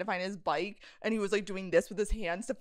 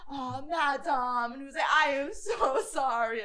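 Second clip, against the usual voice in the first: mock Italian accent; 3 semitones higher than usual. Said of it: "good Italian accent".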